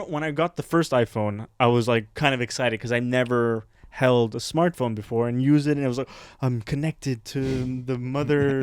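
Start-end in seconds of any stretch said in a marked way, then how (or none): 6.4-8.6 slow, softened, entranced delivery; mock awe. Recalling first holding a smartphone, slow mock wonder. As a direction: draw it out like a mystical revelation.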